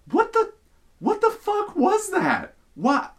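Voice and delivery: very high, incredulous outburst; re-enacted disbelief, breaking off and restarting; shocked sputtering. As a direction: act out a squeaky, stunned sputter. Retold shocked reaction to the trainee.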